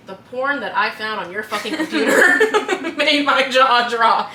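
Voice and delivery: laughing mock outrage, slow at the end; Euphoria line. Host retelling a TV scene, laughing mock outrage. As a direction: quote the angry dad through laughter. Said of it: "that one audio from Euphoria where he's like".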